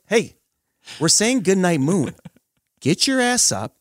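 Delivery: high, loud wake-up call with a long pause; mock yell at kid. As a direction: rouse the sleeping kid mid-story, hammed up. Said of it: "a child you're yelling at".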